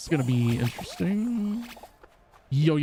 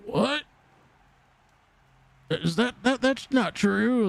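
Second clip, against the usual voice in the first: incredulous; 8 semitones higher, slower than usual. Retold or imitated. Retold disbelieving reply.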